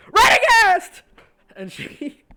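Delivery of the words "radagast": sudden loud yell of a name; shouted name. Acted. Seventh spotting Radagast, yelling his name. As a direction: bellow the name across the room. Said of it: "Seventh turns and she goes".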